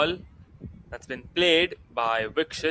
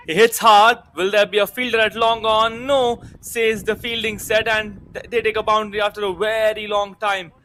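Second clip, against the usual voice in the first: excited commentary; 5 semitones higher, 4 dB louder than usual. Real, not acted. Boundary hit in live commentary.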